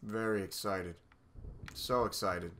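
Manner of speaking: low, subdued mock enthusiasm; deadpan excitement. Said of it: "how excited I am right now".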